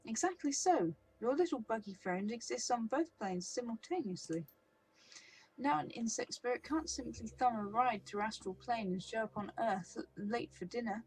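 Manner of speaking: a flamboyant painted elf toying with the troll; theatrical elf. Acted. Elf continues.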